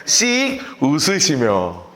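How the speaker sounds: very slow, each syllable drawn out; dictating at a crawl; slow dictation. Shown as a demonstration. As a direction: spell it out slowly for note-taking. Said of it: "이렇게 써놓으시라고요".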